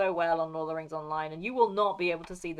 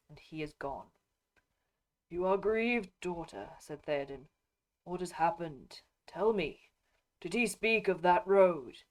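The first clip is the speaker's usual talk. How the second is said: measured epic reading, characters lightly voiced; lightly voiced Rohan nobles in a read-aloud; story narration with voiced characters. A narrator's reading. Reads novel dialogue aloud.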